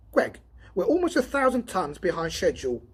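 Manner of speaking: a worked-up partner complaining; Donovan's voice. Acted.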